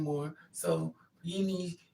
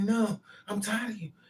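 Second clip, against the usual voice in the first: put-on heated, exasperated outburst; 4 semitones higher than usual. Retelling a man screaming at night during an argument: retelling him screaming. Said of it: "He's screaming".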